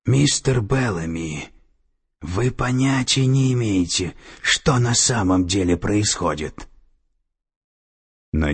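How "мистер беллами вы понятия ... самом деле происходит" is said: ordinary delivery, nothing marked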